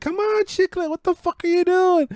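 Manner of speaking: high exasperated yell; teammates urging. Retold or imitated. Teammates yelling at Chicklet to hurry up. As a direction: egg her on, fed up. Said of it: "The other two are like".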